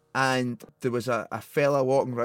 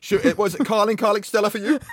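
put-on higher, chirpy uni boy; posh uni lad; 7 semitones higher, faster than usual. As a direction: play the keen student lad. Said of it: "Like that kinda guy".

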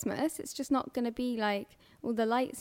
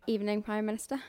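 hushed whisper; whispered film quote; 2 semitones lower, 3 dB quieter, faster than usual. Retold or imitated. Friends quoting Love Actually, whispered. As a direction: breathe the line like a nervous aide.

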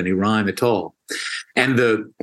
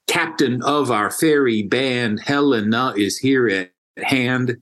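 lightly voiced Puck in a sing-song trochee; reciting Puck. Teacher reciting Puck's lines for the podcast host, lightly voiced. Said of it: "That's, that's Puck".

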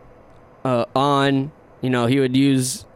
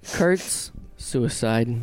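muffled wah wah talk; 3 semitones lower, 5 dB quieter, much slower than usual. Pretend. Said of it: "That sounded like something from a German opera".

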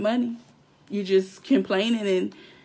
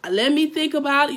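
higher, louder mocking let me think about it; mocking the overthinker; 4 semitones higher, 3 dB louder than usual. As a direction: mimic a dithering client, teasing. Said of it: "All that overthinking".

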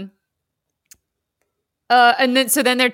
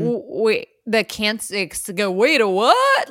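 stunned confusion; slower than usual. Acted. Voices a stunned, confused reaction.

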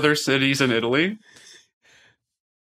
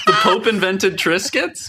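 laughing disbelief; 7 semitones higher than usual. Real, not acted. Incredulous laughing question.

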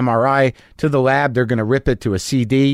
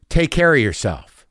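slow, drawn-out send-off; loaded tone. Retold or imitated. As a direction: stretch out the farewell as if it means something. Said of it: "Like that".

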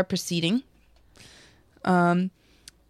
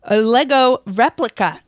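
brisk news read, slightly louder; investigative news exposé; 2 semitones higher, 3 dB louder than usual. Acted. Reads out news article.

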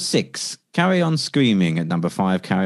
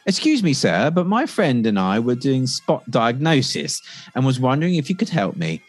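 mock polite doctor. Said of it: "Great acting there, young man".

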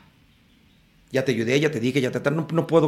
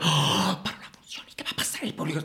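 alarm; 4 semitones higher, 4 dB quieter than usual. Retold or imitated. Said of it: "lo hacían los actores como".

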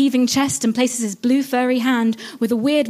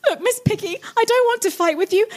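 pleading; 10 semitones higher than usual. Acted. Pleading with Piggy.

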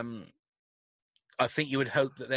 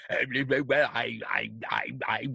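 Boris impression; 3 semitones lower than usual. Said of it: "your Boris impersonation".

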